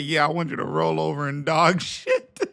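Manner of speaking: quoting the cop through laughter; cracking up mid quote; laughing. Retold or imitated. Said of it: "the cop said".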